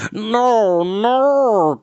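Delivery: wailing creature protest; Gurgi moaning. A narrator's reading. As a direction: moan in dismay as the shaggy creature. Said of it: "Gurgi moaned".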